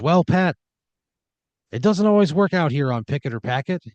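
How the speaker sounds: smooth host consoling the loser; game show host. Acted.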